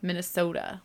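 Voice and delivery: "Minnesota" with a Northern long O; lightly Northern "Minnesota"; Northern Minnesota accent. Shown as a demonstration. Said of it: "don't I sound so Northern when I say that".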